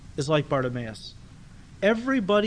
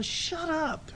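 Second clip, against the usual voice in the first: much higher, softer sneering shut-up; the crowd sneering at the blind man, high and soft; scornful hush; 12 semitones higher, 7 dB quieter than usual. Retold or imitated. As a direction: dismiss him with contempt.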